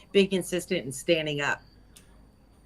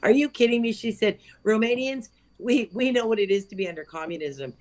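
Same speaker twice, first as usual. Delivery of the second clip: incredulous Romanian friend; 6 semitones higher than usual. Retold or imitated. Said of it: "I wish I could do her accent".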